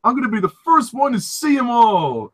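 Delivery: high put-on character voice; high mock voice of an eager child; impression. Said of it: "that's a great impression, Alan".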